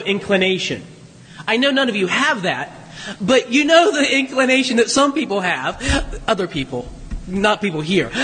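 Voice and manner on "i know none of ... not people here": mock-innocent aside with a chuckle; tongue in cheek. Real, not acted. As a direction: tease the listeners, pretending to exempt them. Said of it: "Jim got my tongue in cheek".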